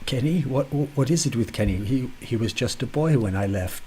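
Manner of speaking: startled, in a bad French accent. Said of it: "a French accent".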